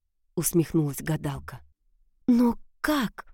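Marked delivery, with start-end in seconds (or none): 2.3-3.3 higher, anxious trembling question. A narrator's reading. Princess begging the witch for rescue, mildly trembling. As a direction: ask it with a mild tremble. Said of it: "дрожащим голосом спросила княжна".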